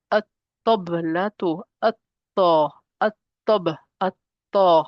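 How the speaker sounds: deliberate at-tablatu, doubled T, no L; article joined to ta. Shown as a demonstration. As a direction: punch the joined T in at-ta, at-tab. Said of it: "I'm connecting it with the ta".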